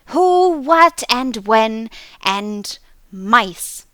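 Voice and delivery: high, loud, odd nonsense questions; babbling creature. A narrator's reading. Hidden creature babbling at the clerk, high and loud. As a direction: chirp riddles from the trees.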